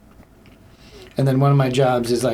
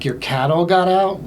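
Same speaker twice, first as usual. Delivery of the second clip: mock surprise; 5 semitones higher than usual. Acted surprise at caller's excuse.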